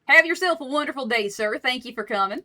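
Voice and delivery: put-on sweet-talking Southern accent, starting high and loud; Karen. Coffee seller sees off a customer, Southern accent. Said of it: "I gotta do the southern accent now".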